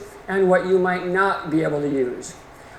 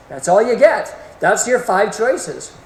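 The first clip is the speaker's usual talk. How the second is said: Porky Pig style sign-off; 2 semitones higher than usual. Retold or imitated. Quoting Porky Pig to students, light mock cartoon voice. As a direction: slam the door on options like a cartoon ending. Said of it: "as Porky Pig once said".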